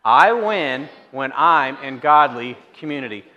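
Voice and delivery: congregation reading aloud in unison; read aloud together. Shown as a demonstration. Pastor leads the church in unison reading. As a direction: say it out loud as one voice. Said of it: "let's read it out loud together".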